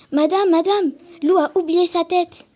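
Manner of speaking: high, loud, eager calling; excited child calling out. Acted. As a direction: call out to the principal with urgent excitement. Child calls out to principal.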